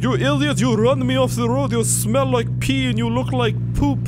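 hammed-up furious driver squawking insults; angry driver. Run-off driver mock-yells insults at gamer.

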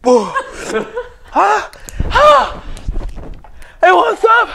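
high, pained gasps, mouth on fire; mouth burning from spicy food. Real, not acted. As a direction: groan through the burning heat.

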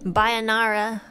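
mixing Japanese and English playfully; slow, playful Japanglish greeting. Retold or imitated. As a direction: Japanglish singsong. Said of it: "This is how I speak in Japanese to my dad".

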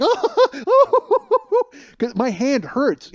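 high squeal of laughter breaking through; can barely talk for laughing; laughing hard. Real, not acted. Cracking up over the bike prank.

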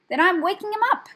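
fast, high, loud retort; cross, rushed snap; spitting angrily. A narrator's reading. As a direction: spit it out defiantly, quickly. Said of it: "spat the rat".

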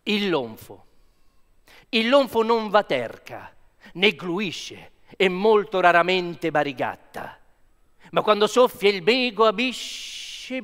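dramatic recital of nonsense Italian verse; fake Italian poetry. Shown as a demonstration. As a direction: declaim it like a grand Italian poem. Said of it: "but in fake language".

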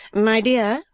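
high wife's voice; Madame Mantalini. Acted. Wife chiding her husband, high character voice.

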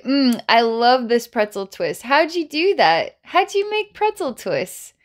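squeaky helium-balloon voice, rising to a peak. Pretend. To the child, playing with helium, squeaky high voice.

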